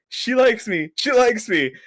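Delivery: high, giddy repeated whisper-shout of joy; giddy disbelief. Retold or imitated. Telling a friend about his first crush, giddy and high. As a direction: gush it like you can't believe it. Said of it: "I was just like".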